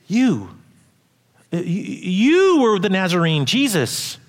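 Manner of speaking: a hint of a pointing servant girl; accusing servant girl. A narrator's reading. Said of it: "she looked at him and said".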